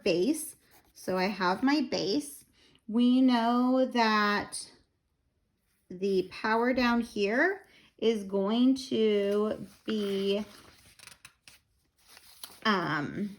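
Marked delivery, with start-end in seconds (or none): 2.9-13.3 winded and slow, out of breath; short on air, breathing hard. Real, not acted. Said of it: "I'm out of breath".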